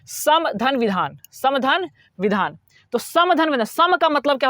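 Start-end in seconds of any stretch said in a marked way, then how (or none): 0.1-1.2 "समधन विधान" said slowly, as two separate parts; word split in two. Shown as a demonstration. Teacher splitting a word for students, slow "समधन", then "विधान". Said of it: "आप दो भागों में बांट दो". 1.3-2.6 slow "समधन", a break, then "विधान"; word split in two. Shown as a demonstration. Teacher repeating the split for students, "समधन" and "विधान" slow and separate. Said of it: "आप दो भागों में बांट दो".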